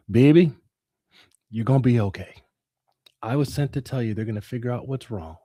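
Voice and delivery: lightly voiced Southern mother; mama's Southern accent. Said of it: "as only my mama could in that Southern accent".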